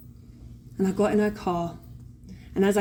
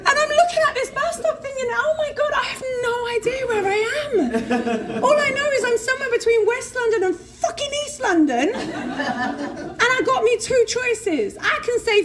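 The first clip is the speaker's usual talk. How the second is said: much higher, tearful laughing narration; laughing while telling; 12 semitones higher than usual. Real, not acted. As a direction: tell it while crying with laughter. Laughing-crying retelling.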